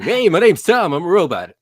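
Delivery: high, loud mock robot greeting; hammed-up friendly robot. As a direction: play an old sci-fi robot cheerfully. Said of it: "it always talked like that".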